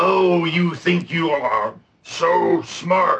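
very slow, eerie, spooky, menacing villain voice. Taunting someone, in a spooky voice. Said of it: "That's my spooky voice".

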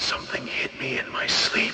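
hushed ghostly whispering voice. Voicing a ghost whispering into a player's ear: ghost voice whispering. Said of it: "you hear a voice whisper in your ear".

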